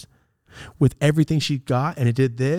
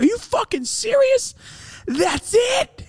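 very high mocking shout; incredulous yell; slower than usual. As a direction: yell it as a disbelieving taunt. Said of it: "so I yelled at her".

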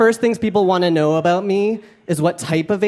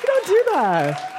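emphatic; slower than usual. Real, not acted. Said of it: "emphatic high aside".

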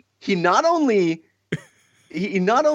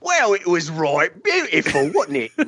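put-on Cockney accent. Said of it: "with your best accent".

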